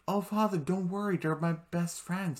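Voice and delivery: high reassuring voice. Retold or imitated. Vlogger voicing the prince reassuring his father, high pitched.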